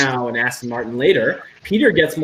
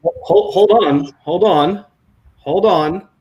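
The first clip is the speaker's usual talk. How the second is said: high, slow broadcast announcer send-up; hammed-up TV presenter, pitched high; mock live announcer; 6 semitones higher, slower than usual. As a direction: announce a live report with playful, drawn-out fanfare.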